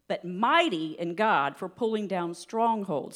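slow, weighted verse reading; slow scripture reading. Real, not acted. Preacher reading Second Corinthians to church, slow and deliberate. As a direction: read it slowly, leaning on key words. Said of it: "read this kinda slow".

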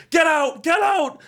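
high, loud yell at the door; re-enacted shout. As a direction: shout them out of the room, pitch leaping up. Acts out yelling at door knocker.

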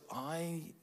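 the soul owning up, softly; soul's quiet confession. Retold or imitated.

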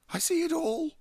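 high, loud agitated cry; shaken with agitation. Acted. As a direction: voice trembling in alarm. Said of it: "in a voice shaken with agitation".

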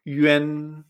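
YUAN said "yü-en", held level; pronunciation with Y. Shown as a demonstration. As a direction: model YUAN with ü gliding to e. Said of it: "y con Y".

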